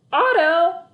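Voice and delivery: sharp high yell across the house. A narrator's reading. Mom yelling at her son about his shoes. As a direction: call him out loud and high. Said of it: "yelled Mom".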